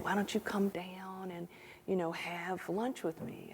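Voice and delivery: retold lunch invite in a hushed, unvoiced whisper; friend's offer whispered softly. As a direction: whisper it like a casual secret.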